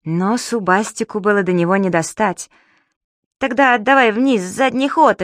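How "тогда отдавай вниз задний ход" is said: higher, louder orders; firm order. Acted. Субастик orders his stuck father to back down, firmly. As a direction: take charge and command. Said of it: "распорядился Субастик".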